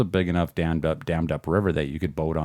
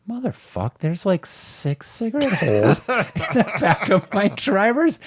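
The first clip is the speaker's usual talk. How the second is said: high, loud furious swearing through a laugh; pissed-off outburst; 13 semitones higher, 4 dB louder than usual. Retold or imitated. Furious discovery of cigarette holes in his own car, yelling. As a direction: blow up at the burnt seat, half laughing. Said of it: "You're so pissed off".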